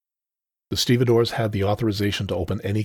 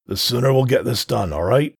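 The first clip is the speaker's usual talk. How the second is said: growled warning; 4 semitones higher, 5 dB louder than usual. Acted. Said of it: "growled Altris".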